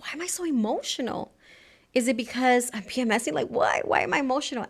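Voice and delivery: asking herself why she's so teary; retold emotional wondering. Retelling own emotional moment.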